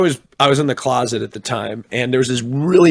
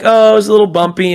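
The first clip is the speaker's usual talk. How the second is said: imitating flight attendant; 8 semitones higher, 6 dB louder, faster than usual. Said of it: "And they're like".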